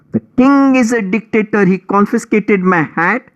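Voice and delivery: whiny mouse. Acted. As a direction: play the weepy victim, whining. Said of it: "wailing and weeping".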